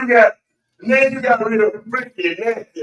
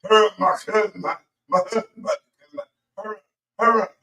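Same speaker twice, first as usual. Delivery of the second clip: mock stammer over the words; stuttering; 3 dB quieter than usual. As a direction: stumble and repeat, stuttering. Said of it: "got you over there stuttering".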